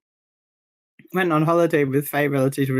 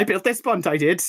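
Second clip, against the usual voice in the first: imitating a Welsh local; Welsh accent; 2 semitones higher than usual. Retelling the bridge builder's boast, mock Welsh accent. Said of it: "this Welsh man wanders by and goes".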